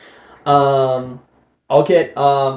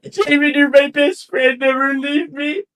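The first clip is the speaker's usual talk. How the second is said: pleading character voice; 9 semitones higher than usual. Acted.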